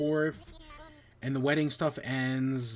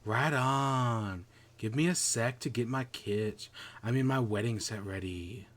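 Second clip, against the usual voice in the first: stoner voice; 3 semitones lower than usual. Acted. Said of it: "that's why I give him the stoner voice".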